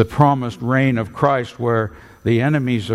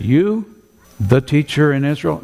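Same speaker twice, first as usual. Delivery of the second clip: mocking in kind; 4 semitones higher than usual. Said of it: "Jesus responded in kind".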